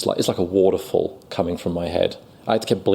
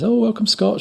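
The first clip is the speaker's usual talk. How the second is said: high, grand welcome; theatrical teacher; 14 semitones higher than usual. Retold or imitated. Acting teacher welcoming the new student, theatrical and high. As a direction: greet him like a larger-than-life actor. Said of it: "he was an actor".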